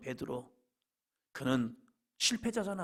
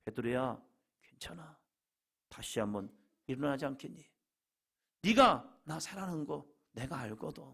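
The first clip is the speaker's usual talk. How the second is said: tender reassurance. Acted. Jesus urging fallen Peter to rise again, tender reassurance. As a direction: comfort him, nearly hushed.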